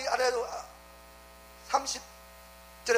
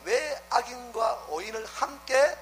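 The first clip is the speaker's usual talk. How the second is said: a mildly raised, earnest plea to God; Abraham pleading; 3 semitones higher than usual. Retold or imitated. Preacher voicing Abraham's plea to God, mildly raised. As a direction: argue with God for the city. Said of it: "아브라함의 중보는 뭐였어요?".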